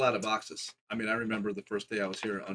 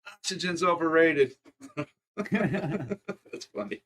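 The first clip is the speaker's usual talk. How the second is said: laughing; 8 semitones higher, 8 dB louder, slower than usual. Real, not acted. Joking about the mask and breathing.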